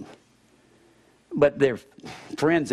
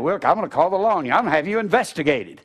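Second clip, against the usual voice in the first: mock angry threat; 4 semitones higher, 4 dB louder, faster than usual. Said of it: "your family screams and yells".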